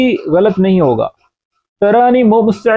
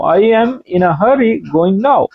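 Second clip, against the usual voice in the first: slow and clear; much slower than usual. Shown as a demonstration. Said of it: "slow English gloss".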